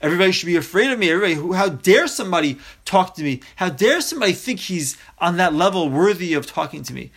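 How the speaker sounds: fast, puffed-up self-important rant; mock haughty rant. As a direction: rattle it off like a pompous bully, lightly played. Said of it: "trying to scare other people".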